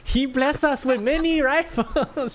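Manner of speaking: high, slow, bad Ukrainian accent; hammed-up Ukrainian accent, slow. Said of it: "I don't know how to do a Ukrainian accent".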